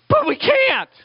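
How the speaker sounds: high, sudden, a hint of panicked disciples; lightly voiced flustered followers; helpless disciples. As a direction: blurt it out helplessly.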